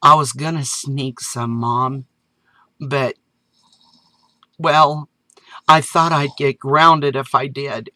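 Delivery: put-on sheepish child owning up; young boy. Boy admits to his mom, lightly voiced child.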